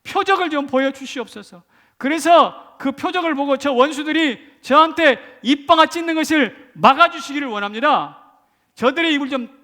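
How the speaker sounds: loud, high, desperate prayer shout; urgent, high-pitched cry of supplication; crying out to God. Retold or imitated. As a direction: plead at full force with the Lord. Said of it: "이렇게 외치는 거예요".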